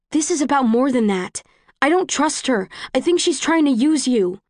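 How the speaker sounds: high, urgent distrust; heated. Acted. Quarrel on the train.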